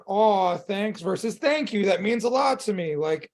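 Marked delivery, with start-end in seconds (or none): 0.1-1.0 drawn-out "aw, thanks"; offhand brush-off of praise; deflecting thanks. Shown as a demonstration. Coach contrasting two ways to take compliments, deflecting thanks. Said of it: "Did you feel the difference". 1.4-3.0 measured, earnest gratitude; sincere thanks. Shown as a demonstration. Coach contrasting two ways to take compliments, sincere thanks. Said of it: "Did you feel the difference".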